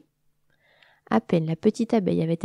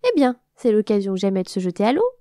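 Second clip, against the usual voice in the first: a louder, teasing cry as she shoves; mischievous exclamation; 5 dB louder than usual. Acted. The wasp pushing her cousin into the water, exclaiming gleefully. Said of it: "s'écria la guêpe".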